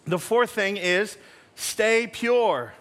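very slow, weighty delivery; slow and emphatic. Shown as a demonstration. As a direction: lean on each word, slowly. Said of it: "slow emphatic point".

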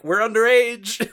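high, slow, prim little voice; mock Orihime protest. Orihime turning down Rangiku's drink, high prim voice. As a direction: say it like a well-behaved kid refusing.

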